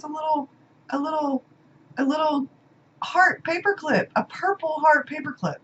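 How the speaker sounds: high and hushed, charmed by something tiny. Real, not acted. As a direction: coo over each little thing. Gushing over tiny gift details.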